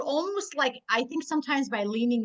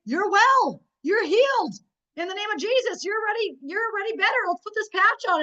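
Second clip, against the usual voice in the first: zealous declaration; 6 semitones higher than usual. Pretend. Speaking life over a customer, fervent and certain. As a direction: proclaim healing like it's already done. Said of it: "talking with a little more zeal".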